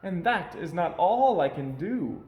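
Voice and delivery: high, bouncy showman cat; playful cat voice. A narrator's reading. Cat in the hat coaxing the bored children, high and playful. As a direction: coax the kids like a grinning trickster. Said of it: "said the cat".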